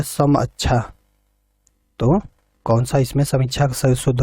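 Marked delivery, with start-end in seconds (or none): 0.0-0.9 समअच्छा with "a" in place of "ee"; variant spelling sounded. Shown as a demonstration. Teacher reading the last spelling option to students, variant sounded out. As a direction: sound out समअच्छा as "sam-achchha". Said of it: "option D है".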